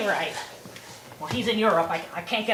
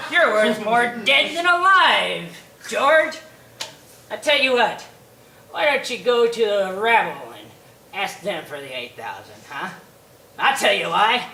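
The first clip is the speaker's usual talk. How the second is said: a hint of a sneering old miser, a little louder; lightly voiced mean old banker; 3 dB louder than usual. Potter mocks desperate George, lightly sneering. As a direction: taunt him, gloating.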